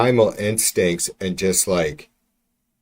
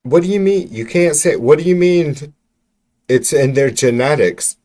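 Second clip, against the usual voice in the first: much higher, sputtering disbelief; incredulous outrage; 6 semitones higher, 4 dB louder than usual. Real, not acted. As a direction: demand an answer you can't believe you need. Incredulous outrage at genetics remark.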